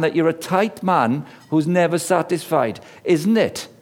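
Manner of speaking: a lilting Welsh telling-off, kept between two; Welsh accent. Retold or imitated. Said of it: "that sounds very Welsh".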